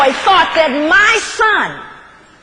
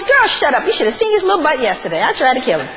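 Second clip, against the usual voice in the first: dismissive mother; 5 semitones lower, faster than usual. Acted. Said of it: "she goes".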